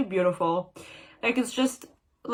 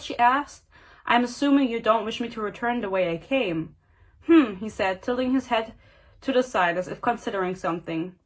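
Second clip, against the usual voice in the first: measured reading-aloud voice; story narration. A narrator's reading. Reader sharing the kiss scene aloud, story narration. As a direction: read it out as a novel passage.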